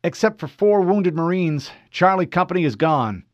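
Fred reporting to an unknown officer, formal. Acted. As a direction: state rank crisply.

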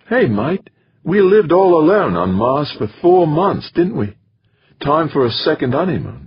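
VJ's voice. Acted. Wife urges Jamie to stop blaming himself, earnest. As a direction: gently press Jamie about his guilt. VJ teases husband about honeymoon.

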